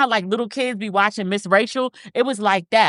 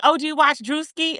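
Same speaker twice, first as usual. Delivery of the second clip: lightly mimicked, higher-pitched question; imitated stylist; 8 semitones higher than usual. Stylist asking client about a comedian, lightly imitated higher. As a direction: lift your pitch to play the other person.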